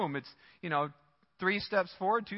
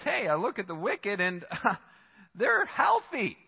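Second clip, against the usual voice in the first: incredulous psalmist; 4 semitones higher, slower than usual. Retold or imitated. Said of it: "he says".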